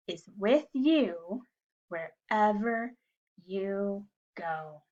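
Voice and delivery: slow, measured Bible recitation; reciting a verse. Shown as a demonstration. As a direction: recite it slowly for children to follow. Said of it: "can we say our Bible verse together".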